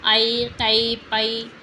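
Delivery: teacher models the broad ऐ; broad ऐ sound. Shown as a demonstration. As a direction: open the mouth wide on ऐ in कई. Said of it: "चौड़े आवाज़ ए या कई".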